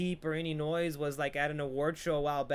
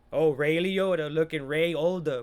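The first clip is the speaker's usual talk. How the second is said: louder, hammed-up fake Italian accent; bad Italian accent; 5 dB louder than usual. Joking about Ray Liotta, bad Italian accent. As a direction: joke in a poor Italian accent. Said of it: "I don't even think that's an Italian accent".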